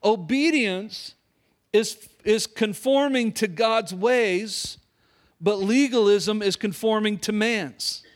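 "Obedience is conforming to God's ways" spoken very slowly for note-taking; slow dictation. Shown as a demonstration. Pastor dictating point one to note-takers, very slow. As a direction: spell it out slowly so they can write. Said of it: "write this down".

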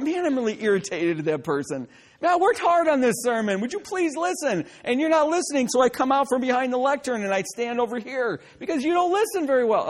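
playfully exasperated preacher, pitch jumping about; put-on irritation at an inattentive listener; mock frustration. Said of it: "I'm getting frustrated by this point".

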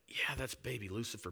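whisper. Retold or imitated. Mocking aside in sermon.

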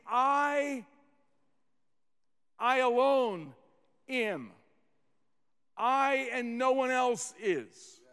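"I" drawn out and set apart with pauses; emphatic I. Shown as a demonstration. Preacher explains the Greek to the congregation, stressing "I". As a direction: lean on "I", holding it before going on. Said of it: "emphasis on the word "I".

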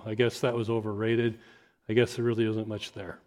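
soft, let-down murmur; sad. Retold or imitated. Couple leaving church let down, quietly sad. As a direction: shrug it off, disappointed. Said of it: "leave sad and go".

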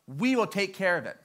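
lightly voiced official reciting a rule; imitating phone clerk. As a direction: recite policy carefully, with a hint of officialdom. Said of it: "the lady on the phone said".

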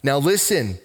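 lifted, measured Bible reading voice; preacher reading Luke aloud; scripture reading. Acted. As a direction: read the passage aloud to the church.

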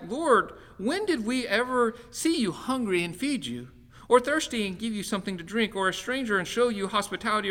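a hint of humble, astonished believers; righteous ones asking. Righteous ones' reply read aloud.

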